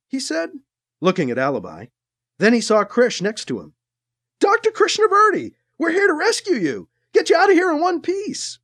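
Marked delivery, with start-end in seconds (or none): 4.4-8.6 trooper voice. Acted.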